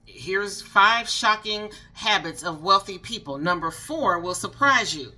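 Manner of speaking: slow, loud clickbait narrator read; AI clickbait voiceover. Retold or imitated. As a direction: hype up the teaser like a generic AI voiceover. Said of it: "now everybody has the same A I voice".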